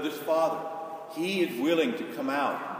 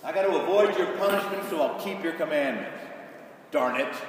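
grudging obedience. Retold or imitated. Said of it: "A lot of folks live like that with God".

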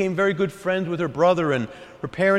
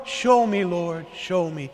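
loving plea; slower than usual. Acted. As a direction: plead with devotion, letting the excitement settle. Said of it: "Now that's love talking".

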